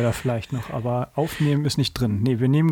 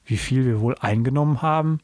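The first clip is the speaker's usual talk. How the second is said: measured, clearly phrased read-aloud; storyteller reading from a book; story narration. A narrator's reading. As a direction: read the children's story with lively quotes.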